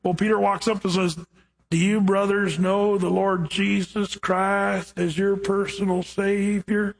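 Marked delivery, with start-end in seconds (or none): 1.7-7.0 slow southern drawl. Retold or imitated. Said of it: "he talked really slow like this".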